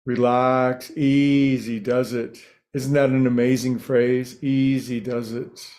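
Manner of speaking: unhurried meditation teacher with long pauses between phrases; lightly held meditation-guide voice; guided meditation. Real, not acted. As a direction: ease listeners into stillness, phrase by phrase.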